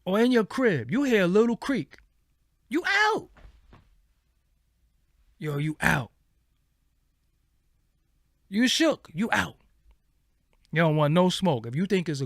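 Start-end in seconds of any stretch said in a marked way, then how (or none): 2.7-9.6 spooked scaredy-cat. Acted. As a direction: squeak it out like you're fleeing. Ghost-scare bit, mock spooked.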